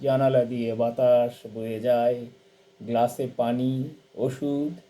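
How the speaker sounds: expressive poetry reading, rising then settling; poem recitation. Acted. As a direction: recite a lullaby poem for a mother, line by line. Reads a translated poem aloud.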